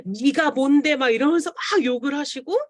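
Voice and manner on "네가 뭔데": mildly heated mock scolding, a bit louder; retold cursing. Customer cursing the seller over a refused product, mock angry. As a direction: imitate an abusive customer's indignant challenge. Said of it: "막 욕을 하시는 거예요".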